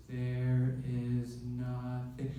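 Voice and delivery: put-on slow spooky ghost girl voice; eerie slow line. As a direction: drag it out like a haunted girl. Girl in video speaks eerily.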